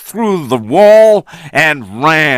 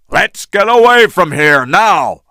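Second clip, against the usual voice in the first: higher urgent call to flee; urgent shout; 6 semitones higher than usual. A narrator's reading. Engelhorn urging the boat away, shouting. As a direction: rush them away. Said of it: "he shouted".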